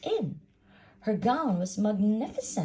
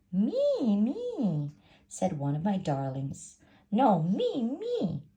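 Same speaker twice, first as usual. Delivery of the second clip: high, eager "me, me"; squeaky, eager stepsister voices; 4 semitones higher, 4 dB louder, slower than usual. Acted. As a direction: clamour to go first. Stepsisters vying for the slipper.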